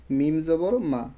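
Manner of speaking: মা said short, without drawing out the a; unstretched vowel. Shown as a demonstration. Teacher showing a voweled letter without madd, short final মা. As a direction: spell it out, ending on a short মা. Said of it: "এটাকে টান দিয়ে পড়বো না".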